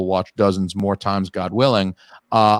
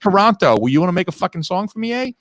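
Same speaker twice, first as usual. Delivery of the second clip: mock Brooklyn tough; 10 semitones higher than usual. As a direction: bark it like a Brooklyn wiseguy. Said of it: "talks like he's from Brooklyn".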